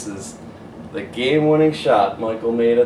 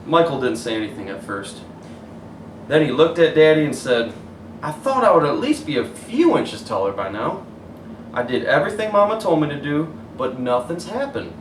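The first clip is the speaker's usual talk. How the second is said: put-on gentle storybook narration for kids; story reading; 3 semitones higher than usual. A narrator's reading. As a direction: read it like bedtime story. Reads picture book aloud.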